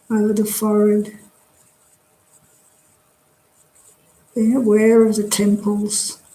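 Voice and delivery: calm, measured meditation guidance with long pauses; guided meditation. Real, not acted. Teacher leading a drop-in group through a body scan, guided meditation. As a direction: guide them gently through relaxing, leaving space after each phrase.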